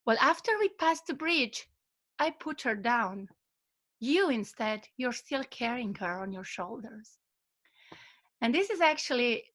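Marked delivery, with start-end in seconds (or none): 0.1-7.2 calm wise reply. Retold or imitated. Old master softly giving the apprentice his lesson. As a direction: let the point settle quietly. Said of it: "the old monk was relaxed and peaceful".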